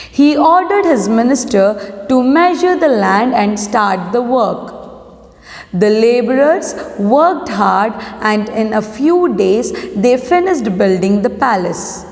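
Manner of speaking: slow, measured classroom reading; story read-aloud. A narrator's reading. Teacher reads a lesson to students, measured story read-aloud. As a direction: read the title and opening deliberately.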